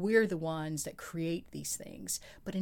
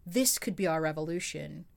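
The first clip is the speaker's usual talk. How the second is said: sexy voice. Pretend. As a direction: read it seductively. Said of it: "I'm gonna put on my sexy voice".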